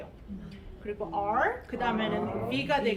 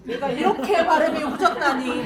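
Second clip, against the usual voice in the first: mock dismay; 4 semitones higher, 9 dB louder than usual. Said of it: "막 이래요".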